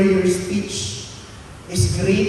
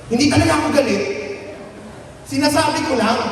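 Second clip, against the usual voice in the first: raised, higher "Hindi talaga ako galit"; a mild mock shout of denial; loud defensive; 6 semitones higher, much faster than usual. Shown as a demonstration. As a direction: insist hotly that you're not angry. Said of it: "sumisigaw ka na".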